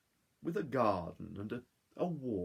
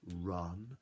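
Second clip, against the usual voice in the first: slow, teasing sing-song; cheeky gingerbread man; much slower than usual. Acted. Gingerbread man taunting his chasers, slow teasing chant. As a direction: taunt them as you run.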